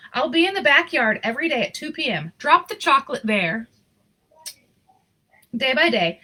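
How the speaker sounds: lively storybook reading voice; story narration. A narrator's reading. Reading a Christmas picture book aloud, storyteller voice. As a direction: read the story warmly to an audience.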